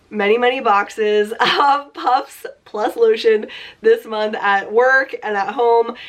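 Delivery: stuffy nose from a cold; nasal voice. Real, not acted. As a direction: talk through a blocked nose. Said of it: "you can still hear my nasally voice".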